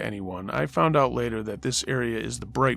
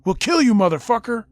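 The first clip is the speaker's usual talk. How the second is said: retold threat; 10 semitones higher, 8 dB louder than usual. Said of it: "And another".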